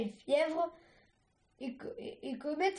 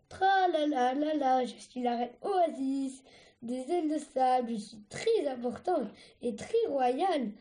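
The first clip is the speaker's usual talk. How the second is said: pompous queen. Acted. Sunny plays the pompous queen.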